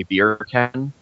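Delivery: "beer can" said as Jamaican "bacon"; Jamaican accent. Shown as a demonstration. Showing the trick phrase for accents, light Jamaican accent. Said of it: "to get a Jamaican accent".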